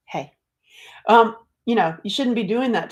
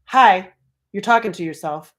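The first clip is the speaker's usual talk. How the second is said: sly self-callout; 6 dB louder than usual. Retold or imitated. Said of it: "And I saw".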